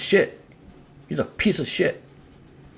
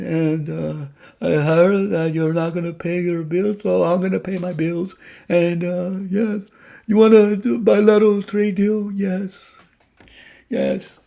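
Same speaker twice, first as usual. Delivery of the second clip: lightly voiced leader of Spain, higher; mock foreign leader; 6 semitones higher than usual. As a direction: play the caller from Spain, a bit higher and eager. Acting out a Spanish leader.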